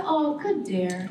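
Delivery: slow Bajan "good dear" with a drawn-out "good"; Bajan saying. Retold or imitated. Retelling her own Bajan reply at the gallery, slow Bajan accent. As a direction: say it easy and slow, Bajan style. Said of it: "That's a Bajan saying".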